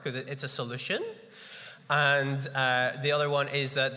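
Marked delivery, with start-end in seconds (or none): 0.3-1.0 SOLUTION said as a question, rising at the end; questioning rise. Shown as a demonstration. Preacher explaining the question mark, questioning rise on SOLUTION. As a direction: turn "solution" upward into a question. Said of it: "go up at the end 'cause it's a question mark".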